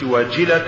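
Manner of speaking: وجلة with its vowel hurried, pitched slightly up; faulty vowel in وجلة. Shown as a demonstration. Interviewer showing what not to say, وجلة with a slighted vowel. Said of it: "ما نقولش".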